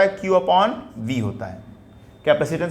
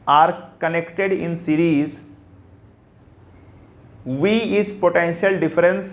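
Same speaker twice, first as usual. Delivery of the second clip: very slow, word by word with long pauses; teacher dictating a statement to students, slowly; slow dictation; much slower than usual. Shown as a demonstration. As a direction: dictate so every student can write it. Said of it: "लिखिए".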